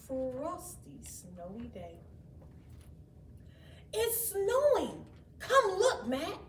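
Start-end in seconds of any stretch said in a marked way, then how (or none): 3.9-6.4 high, bright call to her brother; excited child cry. A narrator's reading. Jenny calling Matt to the window, high and excited. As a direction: squeal it out at the snowy window. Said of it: "cried Jenny".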